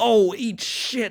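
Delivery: high, sudden emotional outburst. Reacting to failing the final jump of a run: emotional outburst. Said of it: "Got a bit emotional for a second there".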